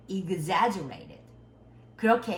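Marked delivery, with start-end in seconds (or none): 0.1-1.2 "Exaggerated" slowly drawn out syllable by syllable; exaggerated enunciation. Shown as a demonstration. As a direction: overdo each sound in "Exaggerated". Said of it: "과장을 하세요". ("Exaggerated"를 천천히 과장된 발음으로)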